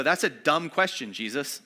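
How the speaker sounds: a hammed-up exasperated retort; exasperated disciples. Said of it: "The disciples basically go".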